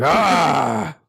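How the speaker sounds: mock villain shout; a short hammed-up villain yell; imitating Liquid Ocelot. Villain gesturing at the carnage, a short mock yell. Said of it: "like Liquid Ocelot at the end".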